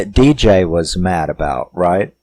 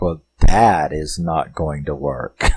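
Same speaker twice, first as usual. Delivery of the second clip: slow, lower, chuckling through it; real laugh breaking in; 5 semitones lower than usual. Real, not acted. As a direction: laugh as you dismiss the idea. Laughing at the apology idea.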